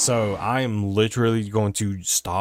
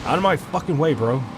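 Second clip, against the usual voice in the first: frustrated yell; 4 semitones higher than usual. Real, not acted. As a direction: yell them out of your way. Yelling at traffic while driving.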